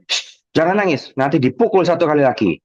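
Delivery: a hint of a stern hushing parent; scolding parent. Parent hushing a crying child, lightly stern. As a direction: shush a crying child with a threat.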